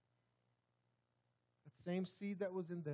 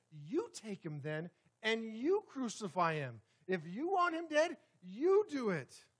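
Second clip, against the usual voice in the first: higher, louder, defiant challenge; Pilate's retort; 4 semitones higher, 5 dB louder than usual. Retold or imitated. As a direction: throw it back at them, higher and louder. Pilate voiced challenging the crowd.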